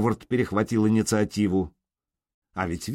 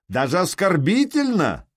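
higher, louder outraged cry; indignant yell; 8 semitones higher, 4 dB louder than usual. A narrator's reading. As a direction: top the insult with a yell. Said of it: "заорал Скельдум". (возмущённый выкрик)

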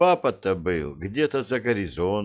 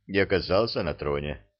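plain reading voice

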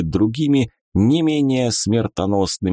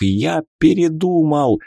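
panicked pleading; 7 semitones higher than usual. A narrator's reading. God panics, begs wizard.

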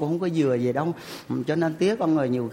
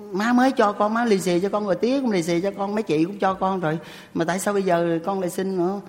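mother's voice raised higher, reproachful; a hint of a mother refusing more money; scolding mother; 4 semitones higher than usual. (mẹ trách con xin tiền hoài)

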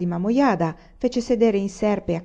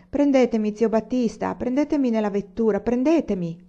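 put-on begging child; 4 semitones higher than usual. Child begs coachman for ride.

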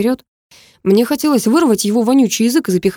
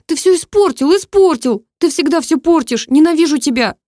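put-on high, loud girl's rant; furious girl; 9 semitones higher, 5 dB louder than usual. A narrator's reading. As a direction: hurl the blame at him. Karina hitting him, furious. (высоко и громко, в ярости)

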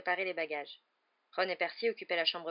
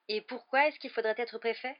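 mildly indignant, higher question; 5 semitones higher, 4 dB louder than usual. A narrator's reading. George revolted by the idea of being prefect, indignant. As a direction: protest with a touch of outrage. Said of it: "s'indigna George".

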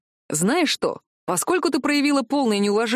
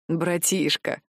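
tender; 4 semitones lower, much slower than usual. Acted. Soldier fondly naming his little brother, tender. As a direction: say it gently, full of affection. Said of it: "сказал Тамер нежно".

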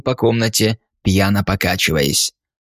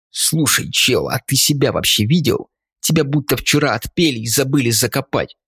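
indignant; 3 semitones higher than usual. Acted. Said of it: "Наконец возмутился я".

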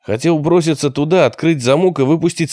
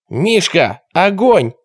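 sudden cry; 5 semitones higher, slower than usual. A narrator's reading. Lookout warning the gang leader, a sudden cry. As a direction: call out a sudden alarm. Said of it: "крикнул вдруг кто-то".

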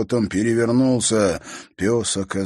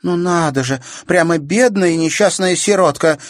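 higher, louder mocking pity; sarcastic; 11 semitones higher, 8 dB louder than usual. A narrator's reading. Natasha sneering at Katerina to her brother, sarcastic. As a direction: sneer at the poor orphan. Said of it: "язвительно бросила Наташа".

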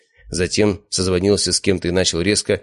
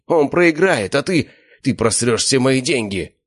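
panicked outburst; 7 semitones higher, slower than usual. A narrator's reading. Slavik over his lost money, panicked outburst. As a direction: plead in panic.

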